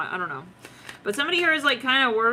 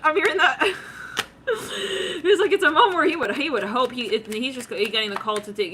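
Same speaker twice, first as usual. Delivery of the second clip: usual speaking voice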